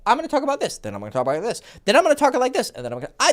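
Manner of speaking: animated, jumping between registers; talk like this. Shown as a demonstration. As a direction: alternate lively high phrases with dropped asides.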